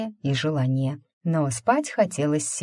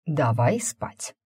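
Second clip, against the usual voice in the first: drowsy, slow, through a yawn; sleepy yawning voice; slower than usual. Acted. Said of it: "широко зевнул".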